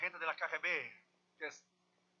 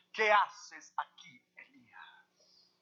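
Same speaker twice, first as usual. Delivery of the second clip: slow whisper; slower than usual. Acted. Voice of God, second time.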